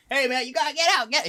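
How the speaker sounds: loud, high shouting; imitated manager yelling. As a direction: yell to throw someone out. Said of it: "I heard my manager yelling".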